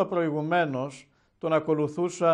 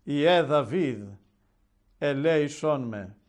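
a slow, drawn-out «ελέησόν με», pleading rather than shouting; slow pleading cry. Retold or imitated. Blind beggar calling to the Lord, a mild slow plea. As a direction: beg for mercy, stretching each word. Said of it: "φωνάζει πιο δυνατά".

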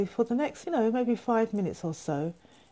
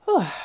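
sigh of release; 2 semitones higher, 5 dB louder than usual. Shown as a demonstration. Demonstrates the release of tuning in.

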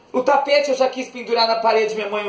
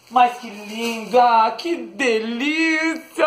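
gushing; much slower than usual. Real, not acted. Gushing over owl gift.

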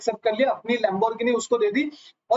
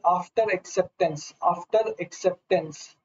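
slow drill; 4 semitones lower, much slower than usual. Shown as a demonstration. Teacher drills the term slowly.

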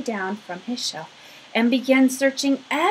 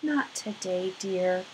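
sighing mother; 2 semitones lower, 6 dB quieter than usual. Acted. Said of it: "her mother sighed".

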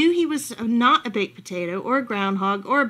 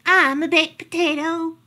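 triumphant dog; 7 semitones higher, 7 dB louder than usual. Acted. Dog's silly guess.

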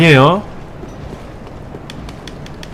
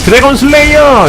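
anime attack cry; 10 semitones higher, 4 dB louder than usual. Pretend. Streamer acts anime hero naming his attack, hammed-up cry. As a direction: call out the special move like a cartoon hero. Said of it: "어렸을 때 보았던 애니메이션을 떠올리면서".

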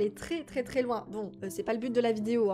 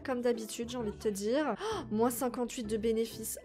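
ordinary delivery

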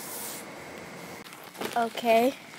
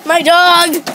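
excited; 7 semitones higher, 10 dB louder than usual. Real, not acted. Greeting the dog.

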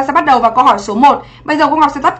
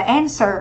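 "answer" stressed on the first syllable, an; teacher modelling AN-swer; 6 dB quieter than usual. Shown as a demonstration. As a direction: put the weight on the start of "answer". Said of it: "Trọng âm dương tiết thứ nhất".

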